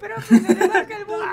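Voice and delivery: high, loud mock pupil voice; put-on squeaky student. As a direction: call out to teacher, high and giggly. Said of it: "vos sos los alumnos".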